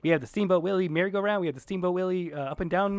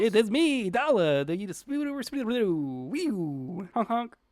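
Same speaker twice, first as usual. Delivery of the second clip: silly guest voice; 5 semitones higher, much slower than usual. Acted.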